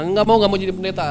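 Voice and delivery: retold refusal. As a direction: protest it like a reluctant child. Retelling own refusal to mother.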